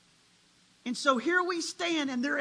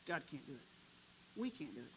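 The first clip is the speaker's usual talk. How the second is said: much softer, defeated murmur; doubting people; 11 semitones lower, 17 dB quieter, much faster than usual. Retold or imitated. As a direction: drop to a hopeless hush. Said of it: "Same people said".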